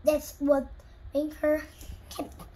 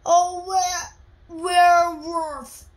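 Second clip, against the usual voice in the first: loud, higher scared shout; frightened shout; 4 semitones higher, 9 dB louder, slower than usual. Acted. Ruby shouts in fright at the monster. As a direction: yell out in fright. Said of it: "shouted Ruby".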